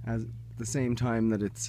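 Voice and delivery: breathless from the climb; panting between words; out of breath. Real, not acted. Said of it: "sorry, I'm out of breath".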